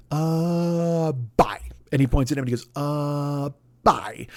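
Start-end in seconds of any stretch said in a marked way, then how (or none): 0.1-1.6 exaggerated Eddie Murphy trader. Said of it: "Eddie Murphy is doing this really exaggerated". 2.7-4.3 exaggerated Eddie Murphy trader. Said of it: "he's doing these very exaggerated motions".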